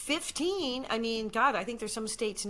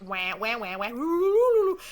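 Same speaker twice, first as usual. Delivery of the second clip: silly music imitation; 6 dB louder than usual. Recalling the bedroom scene's music, silly sung imitation. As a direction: mimic silly score, climbing to a loud whoop. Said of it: "Very silly music".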